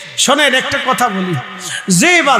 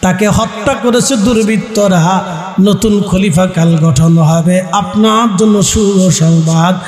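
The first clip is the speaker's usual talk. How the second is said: melodic preaching. Acted. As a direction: intone the climax with long-drawn endings. Preacher chants plea and good news. (সুর করে ওয়াজ)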